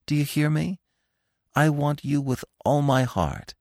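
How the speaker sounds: lovestruck. A narrator's reading. Bambi pouring out love to Feline, lovestruck. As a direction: plead with understated ardour. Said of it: "beside himself with love".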